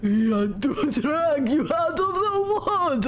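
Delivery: menacing Russian captor; hammed Russian captor voice; Russian accent. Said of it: "I'm in character now".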